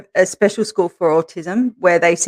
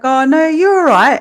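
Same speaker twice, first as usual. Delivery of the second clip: higher, light teacher voice; imitating teacher; 8 semitones higher, 5 dB louder than usual. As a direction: reassure a child gently.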